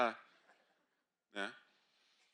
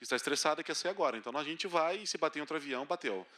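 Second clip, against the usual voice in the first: captain announcement; 3 semitones lower than usual. Retold or imitated. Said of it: "Imagina o capitão".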